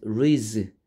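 "reads" closing on a z sound; reads pronunciation. Shown as a demonstration. Teacher modelling verb plus s for students, "reads" ending in z. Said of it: "이렇게 발음해요".

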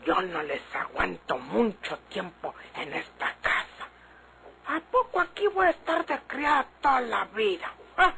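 sulky grumble under her breath, quickening as she goes; muttered aside. Acted. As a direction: complain to yourself once they're gone. Maid grumbling alone after they leave.

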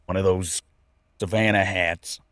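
low, put-on Australian accent. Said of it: "I have to get Australian".

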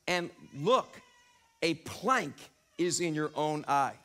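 slow, measured reading of the verses; scripture reading. Acted. Pastor reading Matthew to the congregation, slow and solemn. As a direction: read the passage with weight.

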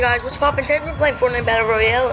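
rushed, quick gamer intro; talking fast. Real, not acted. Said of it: "I don't know why I'm talking so fast".

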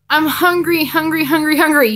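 put-on bouncy, high little-boy voice; giggling little boy. A narrator's reading. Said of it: "he giggles".

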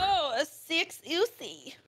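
put-on Valley Girl voice. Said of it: "never do that voice again".

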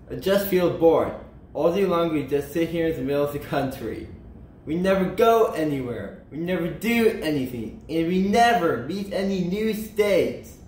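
mildly whiny, bored grumbling; moaning complaint. Acted. Kansas complains to Nebraska about never going anywhere, moaning. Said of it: "moaned Kansas".

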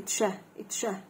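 "اتشه" with a t running into sh; CH sound. Shown as a demonstration. Teacher showing how CH is pronounced, "اتشه" as t plus sh. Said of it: "ال سي اتش بتنطق ايه؟".

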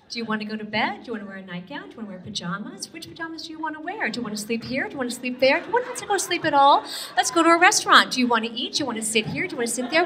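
a hint of a cooing parent; mock coddling parent. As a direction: coax like an over-gentle parent. Mocking parents offering choices.

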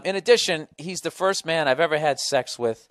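resume reading aloud, clearly and emphatically; email read-out. Acted. Host reading email beside girlfriend, emphatic read-out.

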